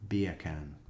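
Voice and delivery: "Beer can" said as a Jamaican saying bacon; a mild joke Jamaican accent; mock Jamaican bacon. Shown as a demonstration. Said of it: "to sound like a Jamaican saying bacon".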